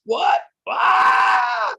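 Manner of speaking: mock bewilderment. Teacher acting out a student stuck in the fifth canto: hammed-up confused yelp. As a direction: play the baffled reader hitting a wall.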